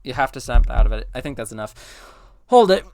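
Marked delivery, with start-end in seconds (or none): 0.0-1.1 same order chanted over and over, fading; droning repetition. Acted. Bee urging panicking co-pilot to snap out, droning repetition. 2.5-2.8 sudden loud, higher interjection; calling out. Acted. Someone cutting into the argument, calling out.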